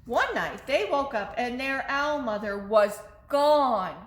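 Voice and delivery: plain reading voice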